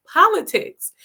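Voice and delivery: high, loud exasperated retort; indignant one-word answer. Retold or imitated. Coworker snapping back at the speaker, high and loud. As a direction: spit it out as if it's obvious.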